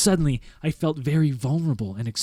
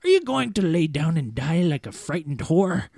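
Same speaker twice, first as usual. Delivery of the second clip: put-on sharp old man voice; 3 semitones higher than usual. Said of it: "he sharply asked me".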